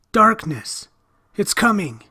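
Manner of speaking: high, loud panicked shout; boy shrieking in fear; terrified cry. Acted. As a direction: scream the warning in terror. Terrified boy warns of darkness.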